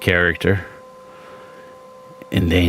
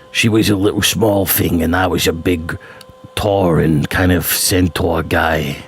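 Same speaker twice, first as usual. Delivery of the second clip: centaur voice; 2 semitones lower than usual. Shown as a demonstration. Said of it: "This was another voice".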